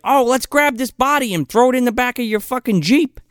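high put-on pestering voice; exaggerated high-voiced imitation; mock eager pleading. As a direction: pitch a terrible idea keenly. Acting out their absurd eager request.

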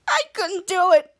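high, slow tearful whine; mock crying. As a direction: wail it through pretend tears. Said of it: "started crying".

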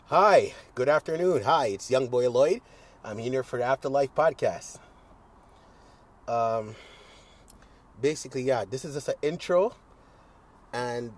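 a podcast intro that sounds overly proper and neat; talking like a white guy. Shown as a demonstration. Host greets listeners sounding like a white guy, lightly put-on. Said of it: "I was speaking like a white guy".

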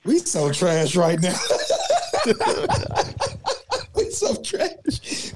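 laughing through the words. Real, not acted. Laughing at his own team.

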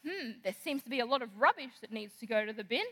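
a mum hinting at chores, pointed and indirect; hinting mum remark. Retold or imitated. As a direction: drop a hint the way mums do. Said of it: "she makes a statement".

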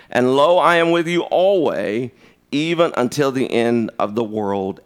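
reading scripture aloud with rising emphasis; solemn Bible reading. Acted. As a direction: read the verses like a preacher.

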